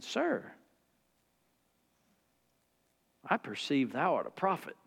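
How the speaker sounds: softly voiced, retold awed reply; hushed, as if stepping back before a prophet; taken aback. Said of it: "She sort of stepped back and said".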